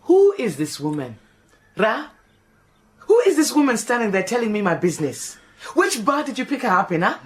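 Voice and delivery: sharp, fast, affronted questions; indignant outburst. Acted. Maid to Ra about the stranger, indignant and fast. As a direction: demand to know who she is. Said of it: "Do not shout like that".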